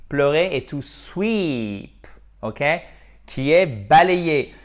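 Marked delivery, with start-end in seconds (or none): 0.6-2.1 "sweep" stretched long, with a clear s before the w; "sweep" with a long, drawn-out ee; careful contrast demo. Shown as a demonstration. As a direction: enunciate "to sweep" slowly, marking the initial "sw". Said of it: "à ne pas confondre to weep".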